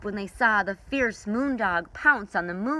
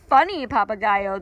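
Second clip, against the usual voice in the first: pouting; 3 semitones higher, 7 dB louder than usual. Acted.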